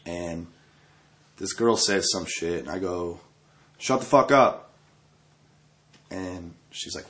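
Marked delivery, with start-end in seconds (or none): 3.8-4.7 snapping at her. Retold or imitated. Telling off girl.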